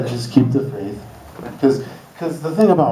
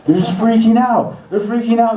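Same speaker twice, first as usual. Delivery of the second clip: much higher and louder freaking out; mock panic; 12 semitones higher, 3 dB louder than usual. Comic mocking Northwest neighbors in a high panicked voice. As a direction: shriek it like people in a panic.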